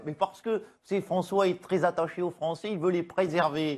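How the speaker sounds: lightly voiced Ségolène Royal; a hint of Royal's sweet voice; Ségolène Royal impression. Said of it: "Bonjour Ségolène Royal".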